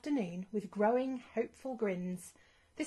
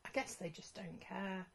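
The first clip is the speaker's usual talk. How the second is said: much softer, resigned sigh of a line; dejected; 9 dB quieter than usual. Acted. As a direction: let the hope drain out. Disappointed at empty stage.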